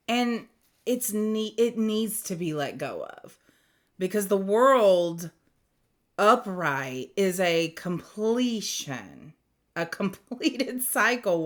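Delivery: slightly slurred words; words a little slurred and blurry; slurred speech. Real, not acted. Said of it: "my words are coming out very slurred".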